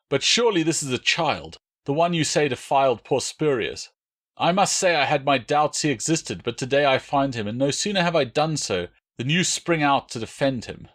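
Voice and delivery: high, harsh interrogator's voice bearing down; snarling Roman soldier. Acted. Drustanis threatening the captured boy, a high harsh snarl. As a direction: spit it at the captive boy.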